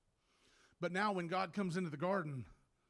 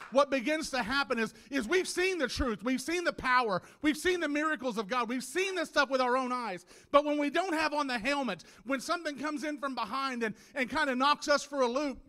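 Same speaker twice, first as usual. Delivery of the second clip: louder, emphatic preaching; impassioned preaching; 6 semitones higher, 9 dB louder than usual. Real, not acted. Preacher reminding church what they've seen, impassioned. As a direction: press each point home to the congregation.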